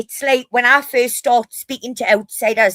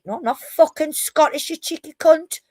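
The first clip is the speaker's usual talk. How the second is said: higher-pitched acted indignation; indignant retort; 7 semitones higher than usual. Geordie answering Americans who ask if they're Scottish, indignant. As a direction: protest as if mildly insulted.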